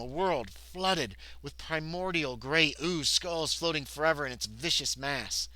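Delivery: slow, emphatic storytelling; game-book narration with weight; dramatic narration. A narrator's reading. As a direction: draw out the ominous images. Reads adventure book aloud.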